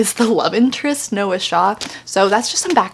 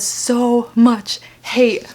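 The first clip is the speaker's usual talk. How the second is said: each word whispered slowly and separately; slow whispered emphasis; much slower than usual. Pretend. Reading the all-caps review line, whispered word by word. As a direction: whisper it, one word at a time.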